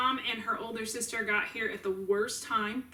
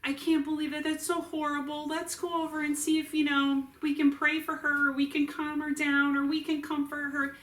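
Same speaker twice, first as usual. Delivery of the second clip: a light imitation of a kind mother, higher throughout; gentle caring mom; 5 semitones higher than usual. A hint of the old compassionate mother urging them to help the woman. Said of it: "would have been like".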